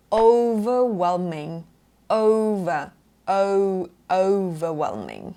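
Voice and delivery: 'overwhelming' slowly, its opening O a long glide; British O diphthong. Shown as a demonstration. Teacher breaking the word down for learners, long gliding O. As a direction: stretch the gliding O that starts 'overwhelming'. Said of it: "ประมาณนี้ นี่คือเสียงแรก".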